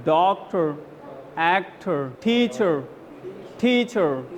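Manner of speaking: "टीचर" ending on the vowel with no r; dropped r. Shown as a demonstration. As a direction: say "डॉक्टर" with the r dropped. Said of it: "बस उसी को pronounce करके". ("टीचर" बिना आर के)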